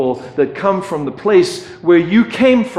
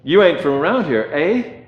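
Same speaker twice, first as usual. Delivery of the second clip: put-on a light Canadian accent, a bit quicker, eh tipped up; mock Canadian quizzing an outsider, lightly done; Canadian version; 3 semitones higher than usual. A Canadian local questioning the American, light mock Canadian accent. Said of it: "being an American in Canada".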